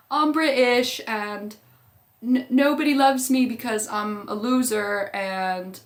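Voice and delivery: a hammed-up sad loser complaining; whiny loser. Voicing Colin's self-pity, acted quote.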